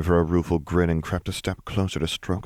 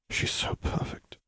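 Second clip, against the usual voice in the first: soft, slow, breath-only whisper; hushed, lovestruck aside to oneself; awed inner thought; 8 dB quieter, slower than usual. Acted. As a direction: whisper it slowly, as a private thought. Character's inner thought, read hushed.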